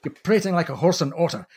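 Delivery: put-on a huffy Scotsman splutters in a Scottish accent. Marshall scolds the purser over spilt gravy, indignant Scottish accent. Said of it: "phoneticizes this Scottish accent".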